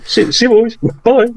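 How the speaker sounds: high singsong farewell; cheery goodbye. Real, not acted. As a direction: sing out the goodbye. Signing off cheerily.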